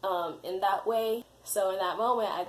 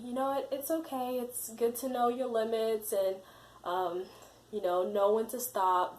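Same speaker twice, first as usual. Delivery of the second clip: imitated reassurance; 3 semitones higher than usual. Interviewer telling crying candidate it's okay, imitated gentle reassurance. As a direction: console them lightly, pitched up.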